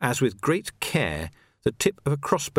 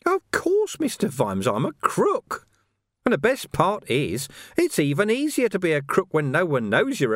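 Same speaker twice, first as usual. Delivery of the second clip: higher, sly and gleeful; gloating villain; 8 semitones higher than usual. Acted. Carcer gloating to Vimes about his release, sly and gleeful. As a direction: gloat with oily glee.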